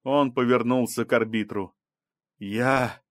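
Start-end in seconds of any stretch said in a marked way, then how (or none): 2.4-3.0 hesitant, drawn-out start of an appeal; understated entreaty; pleading. A narrator's reading. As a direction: begin to plead, haltingly. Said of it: "сказал он умоляющим тоном".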